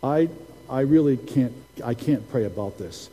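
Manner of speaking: halting, subdued fake hesitation; teasing mock reluctance. Prophet teases Tim about the invitation, mock reluctance. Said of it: "I messed with him a little bit".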